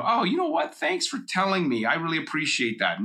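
mock-gushing thanks, starting very high; positive response. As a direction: put on a high-pitched grateful reply that settles down. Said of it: "respond in a positive way".

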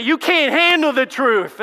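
hammed-up courtroom shout, high and slow; TV courtroom outburst. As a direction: thunder it like a witness in a courtroom drama. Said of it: "what you see on T V".

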